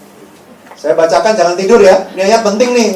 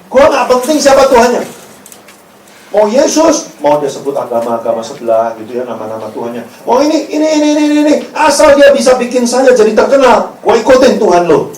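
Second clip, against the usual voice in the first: imitating rich kid; 5 semitones higher, 4 dB louder than usual. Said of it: "Dia ngomong begini".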